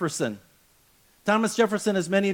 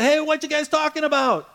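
casual Jesus; 8 semitones higher, 3 dB louder than usual. Acted. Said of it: "He says".

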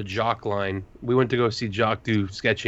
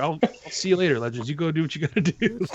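lazy dismissal; 7 semitones higher than usual. Retold or imitated. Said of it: "I was like".

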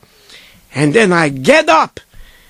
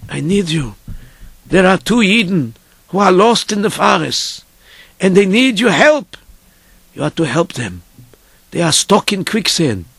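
grave, mostly lower request; solemn rabbi; 3 semitones lower than usual. Retold or imitated. Rabbi asking dreamer to rescue two lost men, solemn.

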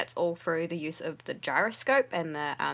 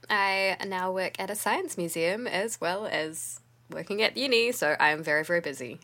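tired voice. Real, not acted. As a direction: sound worn out after a long week. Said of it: "I apologize for my tired voice".

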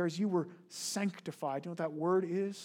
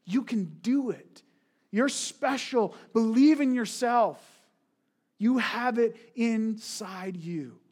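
slow, mock pep talk; understated imitation of self-help cheer; cheering encouragement; 2 semitones higher, slower than usual. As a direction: coax like a cheesy motivator, slowly. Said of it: "constant message".

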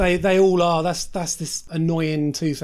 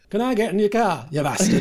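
put-on Yorkshire accent; 3 semitones higher than usual. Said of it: "It'd be more like".

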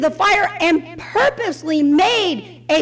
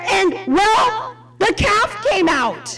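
sheepish excuse; 7 semitones higher, slower than usual. Acted. Aaron's lame excuse, voiced comically.

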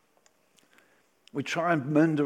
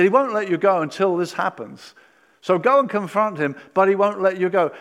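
forceful command; 3 semitones higher, 7 dB louder than usual. Acted. God's words, preaching at force.

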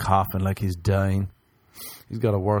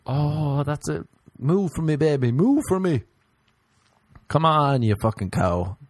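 hammed-up bedroom coaxing, slightly raised; mock dirty talk; 4 semitones higher than usual. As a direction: urge on a lover, jokingly. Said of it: "That's my dirty talk".

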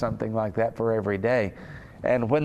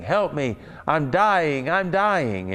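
retold yelling; 4 semitones higher, slower than usual. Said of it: "was just yelling and screaming".

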